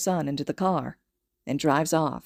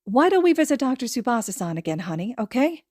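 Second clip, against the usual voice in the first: nervous smile; 5 semitones higher than usual. Acted. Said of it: "nervous smile".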